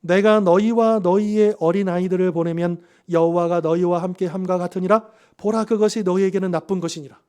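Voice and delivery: loud, forceful reading of an angry king; angry Pharaoh. Acted. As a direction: read it out as the angered Pharaoh, loud. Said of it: "화가 난 바로가 십 절에서 이렇게 말합니다".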